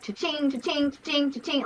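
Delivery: high, sing-song cash-register cha-chings; cha-ching imitation. Speaker likens the ringing phone to money, playful imitation.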